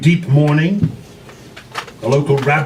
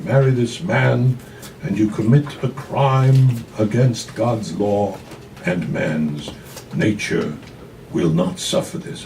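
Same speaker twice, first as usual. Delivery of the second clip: slow, grave warning, sinking lower; solemn father; 3 semitones lower, 4 dB quieter than usual. Acted. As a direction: lay down the law, heavy and slow. Father warns of a crime.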